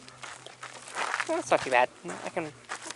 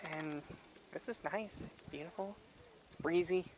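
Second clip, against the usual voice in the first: hushed; 12 dB quieter than usual. Real, not acted. Quiet admiring of the view.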